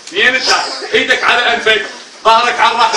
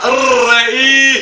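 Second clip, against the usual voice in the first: slow prompt; 3 semitones higher, much slower than usual. Shown as a demonstration. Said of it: "حجي لورا".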